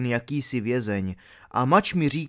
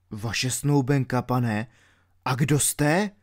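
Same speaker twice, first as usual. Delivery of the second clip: ordinary delivery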